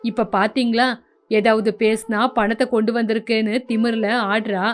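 the fed-up husband pouring out grievances to his mother; lightly voiced son.

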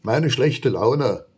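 grumpy monster admits its bad mood; sulky mutter. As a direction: drag it out sulkily. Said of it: "muffelt das Monster".

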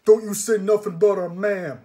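huge, high, loud angry bellow; thundering henchman outburst; earthquake roar. A narrator's reading. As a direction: roar like an earthquake in defense of mother. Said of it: "The voice was like an earthquake".

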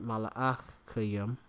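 mala'achayim said slowly, syllable by syllable, ma-la-ach-a-yim; Hebrew word slowly. Shown as a demonstration. Teacher sounds out Hebrew for angels, slow and careful. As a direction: spell out mala'achayim slowly for the class. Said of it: "angels, or".

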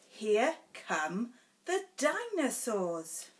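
lively singsong picture-book reading; sing-song storybook voice; reading to children. Acted. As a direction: read it bouncy for a toddler.

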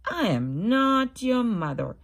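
loud dog character. Acted. Dog tells baby bird it is not his mother, loud. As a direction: bark it out as the dog. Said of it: "said the dog".

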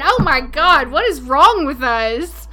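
slow, laughing words; laughing at your own silliness; laughing disbelief. Real, not acted. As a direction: say it slowly through giggles. Cracking up at a silly name.

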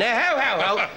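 high silly imitated hoot; mock hooting along. Comedian copying the room's hooting, high and silly. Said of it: "I kept going".

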